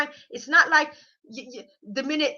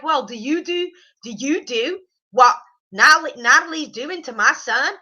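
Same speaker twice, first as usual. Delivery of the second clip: lightly put-on Southern US mother; little Southern accent; 2 semitones higher, 5 dB louder than usual. Mother-in-law challenging the girlfriend, light Southern accent. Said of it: "I kinda like doing the little southern accent".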